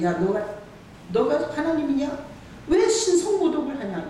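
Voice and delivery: acting out accusers, pitch lifting as it goes; mild mock accusation. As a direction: challenge him like an indignant accuser, lightly played. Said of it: "이러고 욕하면". (살짝 흉내 내듯 따져 묻는 말투)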